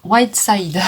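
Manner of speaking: slow, stumbling French-accented English, restarting the first word; halting French-accented English. Real, not acted. French vlogger struggles to read an English palette name, slow and halting. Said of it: "Désolée pour mon anglais qui est complètement pourri".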